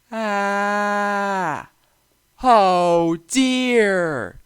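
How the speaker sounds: high loud alarmed cry; startled shout. A narrator's reading. James spotting a deer, crying out in alarm. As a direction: yelp at the deer on the track. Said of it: "shouted James".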